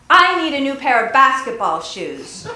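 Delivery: put-on bossy, demanding kid's voice; rude demand. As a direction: demand it rudely like a spoiled kid. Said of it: "you stomp your foot, making a big noise".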